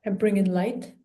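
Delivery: calm meditation guide with long pauses; guided meditation. Real, not acted. Healer guiding listeners through an energy clearing, calm guided meditation. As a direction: talk them gently through it, pausing often.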